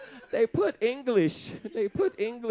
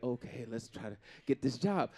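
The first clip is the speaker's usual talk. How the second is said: white voice; 9 semitones lower, 7 dB quieter than usual. Pretend. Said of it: "We call it the white voice".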